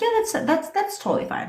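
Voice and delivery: high, breezy imitation of him agreeing; mock eager guy. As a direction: mimic his easy-going yes.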